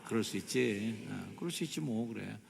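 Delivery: easygoing, settled reassurance; understanding acceptance. Shown as a demonstration. Preacher models the understanding reply for congregation, mild acceptance. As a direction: let it go kindly. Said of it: "시작".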